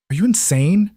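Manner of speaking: sharp high cry of alarm; harsh. Acted. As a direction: snap it out, scared. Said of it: "The words came out harsh".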